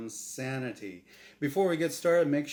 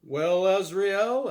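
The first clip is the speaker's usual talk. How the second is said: deep-voiced announcer; 6 semitones higher, 9 dB louder, slower than usual. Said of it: "a deep-voiced announcer said".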